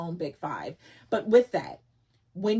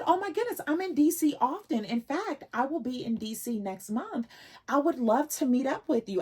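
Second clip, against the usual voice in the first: voicing her much higher and eager; delighted new acquaintance, much higher; excited woman quoted; 7 semitones higher than usual. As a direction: quote the stranger in a high, delighted voice. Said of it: "And she said".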